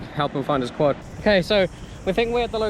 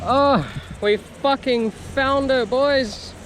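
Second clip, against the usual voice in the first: excited; 5 semitones higher, slower than usual. Real, not acted. Finds drone.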